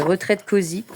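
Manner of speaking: "retraite cosy" said as French words; French reading of "retraite cosy"; French pronunciation. Real, not acted. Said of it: "Moi, je dirais ça en français".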